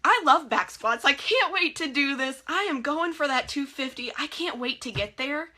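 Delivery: eager gym hype, loud and bright; pumped self-talk. Retold or imitated. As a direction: psych yourself up for the lift.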